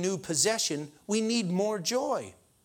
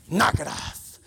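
Bogart tough guy; 3 semitones lower than usual. Retold or imitated. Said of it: "Bogart would smack the lady and be like".

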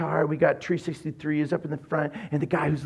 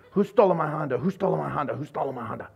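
said faster and faster, fading off; 2 semitones lower, faster than usual. Shown as a demonstration. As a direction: rattle it off faster and faster until it trails away. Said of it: "Just say it faster and faster".

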